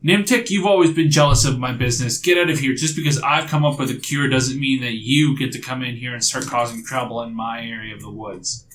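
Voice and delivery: moderately heated in-character yelling. Acted. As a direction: tell off a rival, strongest at the start. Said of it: "she starts yelling at you".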